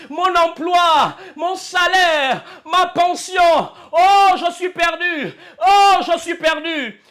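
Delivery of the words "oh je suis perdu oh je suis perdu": cry of despair. Retold or imitated. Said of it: "Tu cries au désespoir".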